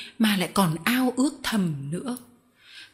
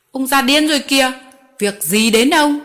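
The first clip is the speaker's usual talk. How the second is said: louder, higher snarl of contempt; angry retort; 4 semitones higher, 7 dB louder than usual. Acted. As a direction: turn nasty and loud. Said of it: "Garofoli đổi giọng".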